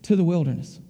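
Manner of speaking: low, firm voice of God sending him off; stern command. Retold or imitated. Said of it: "And then he said".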